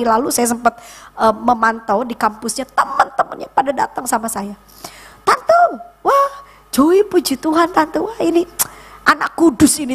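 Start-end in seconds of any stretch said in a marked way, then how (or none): 5.2-9.9 high, gushing greeting; high-pitched admiring chatter, retold; excited young friends. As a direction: imitate excited friends hailing an auntie. Voices son's friends greeting her.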